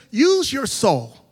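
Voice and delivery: slow, drawn-out voice of God commanding; God's slow command. Retold or imitated. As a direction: stretch each word like a divine order. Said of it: "He says".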